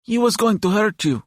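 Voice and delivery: put-on high-pitched young boy's voice; high, earnest kid; serious boy. A narrator's reading. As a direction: voice a serious child, pitched well up. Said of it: "John said in all seriousness".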